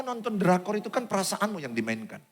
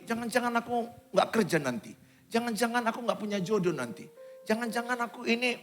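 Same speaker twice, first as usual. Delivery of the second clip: softer, slightly raised worried self-talk; acted negative worrying; 3 semitones higher, 7 dB quieter than usual. Preacher voices a negative thinker fearing no job or partner, mildly worried. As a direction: fret quietly, as if imagining the worst. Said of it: "Pikirannya selalu negatif".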